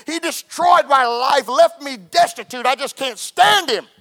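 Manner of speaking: imitated anguished outburst, drawn out slowly; slow, aggrieved wail as the wronged wife; retold tearful hurt, without real sobs; weeping confession. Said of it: "began to weep and cry".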